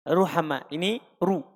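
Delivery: heavy r with u in ruhama and ru; thick ra. Shown as a demonstration. Teacher repeats the example in Indonesian, thick ra. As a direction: pronounce ruhama, then ru, with a thick r. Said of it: "ini dibaca tebal".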